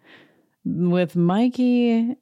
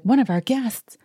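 higher, annoyed mock Kyle; irritated Kyle impression; 7 semitones higher than usual. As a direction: complain at him like Kyle. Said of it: "she's like".

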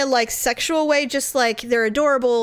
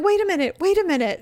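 mock whiny stalling; 5 semitones higher, faster than usual. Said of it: "she was constantly going".

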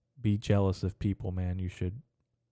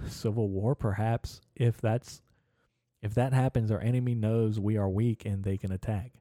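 mock grand speech. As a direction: preach it like a wartime rally speech. Reading his own grandiose notes aloud.

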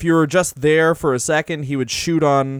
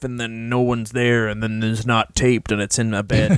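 mock dreamy confession; 5 semitones lower than usual. Joking about a wrestler, a hint of a dreamy swoon. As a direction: sigh it out like a lovestruck fan.

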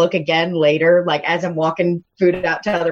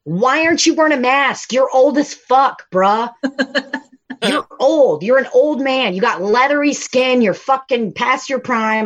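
exasperated rant, a bit higher pitched; imagined telling-off; 3 semitones higher than usual. Retold or imitated. Server imagining scolding an elderly unmasked Postmates man, exasperated rant. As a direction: lay into him in mock outrage. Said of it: "I wanted to be like".

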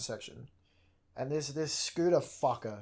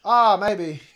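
raised, loud acted comeback; loud retort; 5 semitones higher, 12 dB louder than usual. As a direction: throw it back at him loudly.

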